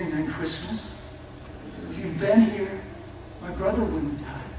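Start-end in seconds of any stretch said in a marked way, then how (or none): 1.9-4.5 stinging grief. Retold or imitated. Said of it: "There's a sting to that one".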